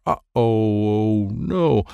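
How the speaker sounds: slow, worried uh-oh; alarmed dread. A narrator's reading. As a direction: stretch it out in dawning alarm. Child narrator realises he is falling.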